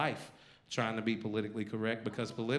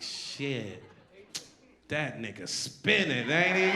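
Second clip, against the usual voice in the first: mock reply; slower than usual. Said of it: "I was like".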